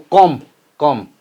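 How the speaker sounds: "come" said alone as the stressed syllable; stressed first syllable. Shown as a demonstration. Teacher showing where compromise takes its stress, stressed "come". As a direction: isolate "come" as a stressed beat. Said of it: "this gets a stress upon".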